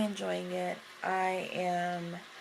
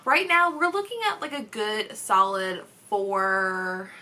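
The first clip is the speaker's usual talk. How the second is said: excited rating; 4 dB louder than usual. Real, not acted.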